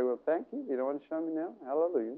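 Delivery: soft, calm thanks; softly content. Shown as a demonstration. Preacher showing a quiet prayer, soft and calm. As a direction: let it go gently. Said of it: "just say".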